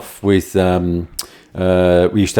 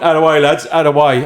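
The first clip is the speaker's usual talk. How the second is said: put-on pushy drunk bloke; 5 semitones higher, faster than usual. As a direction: shove the lads aside with your voice. Drunk man clearing space to kick.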